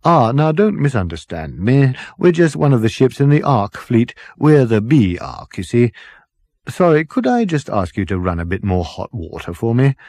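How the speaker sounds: breezy dotty captain waving off worry; jolly captain. Acted. Captain laughing off Ford's worry about the frozen bodies, jolly.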